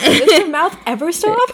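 high, laughing mock exasperation; laughing complaint. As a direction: pile on the joke about a chatter.

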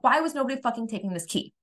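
high exasperated cry, no real shout; mock exasperated scream. Reenacting screaming over the ignored key, exasperated. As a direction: act out screaming in frustration without the volume. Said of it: "sitting there screaming".

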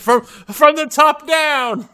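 high, loud and drawn out slowly; stretching the punchline out with glee; excited shout. Real, not acted. Giddy punchline shouted back.

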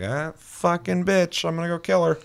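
gamer voicing his own hammed-up reaction to a quest; mock eager hero. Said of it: "And I'm like".

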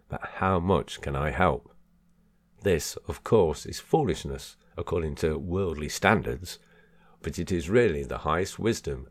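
measured, emphatic book reading; deliberate audiobook delivery; reading aloud. Acted. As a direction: read it out clearly to listeners.

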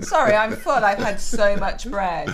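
a pretend full customer, half laughing; laughing mock refusal. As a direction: play the stuffed diner, laughing. Mock diner refusing the menu.

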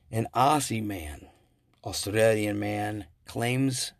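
put-on slow, half-hearted Australian accent; mock Australian accent. Host introducing a news story about an Aussie man, mock Australian accent. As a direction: slip briefly into a playful Aussie accent, drawn out. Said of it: "I don't know why he used an accent".

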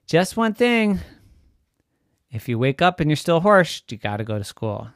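high, loud mock-enthusiastic dad; teasing daddy. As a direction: oversell the idea playfully. Daddy sets condition.

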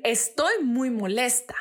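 slow, calm, plain-spoken admission; calm statement. Shown as a demonstration. Podcast host showing the right way to voice anger, calm and slow. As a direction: say it evenly and slowly. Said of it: "aprender a decir".

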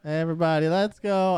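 high, bright-eyed call to the gang; mock kids'-show enthusiasm; cartoon rallying cry.

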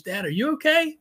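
worried son. Retold or imitated. Son finds father crying.

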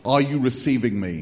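lightly voiced mock-grand God; Charlton Heston as God. Preacher parodies God checking for reception, mildly mock-grand voice. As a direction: call down lightly as a film-epic God. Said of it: "God always speaks like Charlton Heston".

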